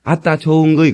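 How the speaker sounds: Jeolla dialect cue; feed the refrain in Jeolla dialect; 전라도 사투리 추임새. Shown as a demonstration. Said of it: "그렇게 하세요". (전라도 말로 추임새 시범)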